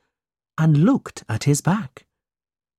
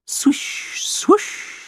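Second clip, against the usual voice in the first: whisper. A narrator's reading. Narrator evokes sound.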